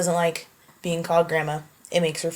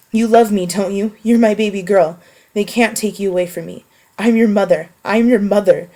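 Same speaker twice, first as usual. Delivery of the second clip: louder, pleading, mother on the edge; a desperate mother begging her daughter, louder; 5 dB louder than usual. Acted. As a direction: plead as a frantic mother at the wheel. Mother sobbing while driving.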